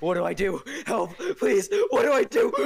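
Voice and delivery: rising into a laughing shriek; dramatic TJ reading. Acted. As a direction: ham it up like a voice actor. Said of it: "I can read a T J".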